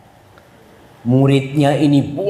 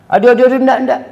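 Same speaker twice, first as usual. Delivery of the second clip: annoyed refusal; 9 semitones higher, 4 dB louder, faster than usual. Acted. Child resists parent's request.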